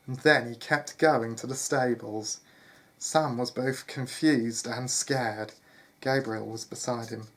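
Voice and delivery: measured storyteller delivery; story narration. A narrator's reading. Narrator telling listeners of John leaving the manor, story narration. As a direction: read it out as a tale.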